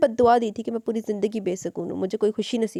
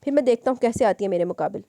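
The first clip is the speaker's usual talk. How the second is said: a man furious at a woman who challenged him; angry rant. Acted. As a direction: vent his rage while pacing. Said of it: "गुस्से से बोला".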